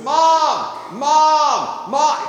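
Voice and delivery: put-on high, loud child's call; high mock kid yelling Mom over and over. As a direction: call out like a little boy begging for his mom. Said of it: "he goes".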